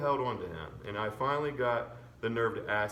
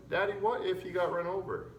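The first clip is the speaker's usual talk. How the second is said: worried; 6 semitones higher than usual. A narrator's reading. Opal fears the dog is dead.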